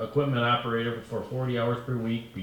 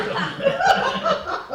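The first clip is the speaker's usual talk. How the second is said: high-pitched giggle; 8 dB louder than usual. Real, not acted. Laughs at the mix-up.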